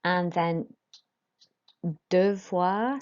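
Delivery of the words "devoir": "devoir" with OI as wah; French vwah sound. Shown as a demonstration. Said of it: "that makes a voix sound".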